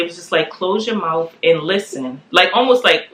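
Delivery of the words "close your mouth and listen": slow, measured instruction; clear command. Retold or imitated. Wife repeating the voice she heard, slow and clear. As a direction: say it slowly so every word lands. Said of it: "so clear as day".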